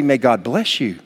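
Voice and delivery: sincere blessing. Shown as a demonstration. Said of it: "what we should say".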